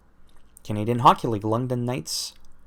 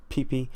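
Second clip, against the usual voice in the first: Friends laugh imitation. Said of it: "That was from Friends, by the way, with Joey and Chandler".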